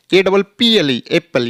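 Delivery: the doubled p of "एप्पल" held, the wrong way. Shown as a demonstration. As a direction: spell it and say "एप्पल" with a long double p. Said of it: "ये हमारा गलत तरीका है".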